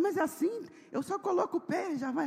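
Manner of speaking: high amazed voice. Retold or imitated. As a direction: marvel at the new car. Husband amazed by car. (espanto agudo)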